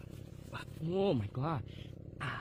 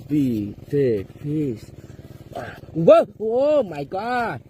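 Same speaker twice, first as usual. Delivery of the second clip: ecstatic shout; 12 dB louder, much slower than usual. Real, not acted. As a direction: scream with joy at the catch. Big fish being landed.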